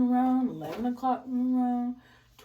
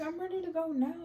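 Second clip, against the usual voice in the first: put-on lightly raised whiny child voice, higher; a hint of a five-year-old complaining to Dada; fed-up little daughter; 7 semitones higher than usual. Daughter asks Dada why he keeps changing the time, lightly whiny.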